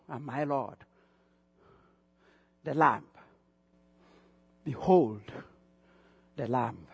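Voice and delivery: low, measured proclamation with weighty pauses; solemn pronouncement. Retold or imitated. Preacher quoting John's announcement of the Lamb, solemn and low. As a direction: announce it low and soft, pausing between phrases.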